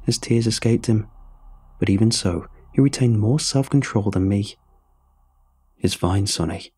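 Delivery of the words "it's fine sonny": calming. Acted. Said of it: "Huck tried to calm me down".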